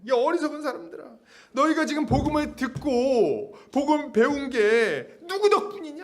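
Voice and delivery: high-pitched indignant scolding; heated preacher acting out a reproach; acted angry rebuke. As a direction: demand an answer as the exasperated apostle. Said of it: "이렇게 막 화내면서 하진 않았어요".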